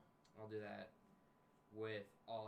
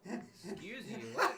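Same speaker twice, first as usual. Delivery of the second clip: surprised; 12 semitones higher, 13 dB louder, much slower than usual. Real, not acted. Startled reaction at table.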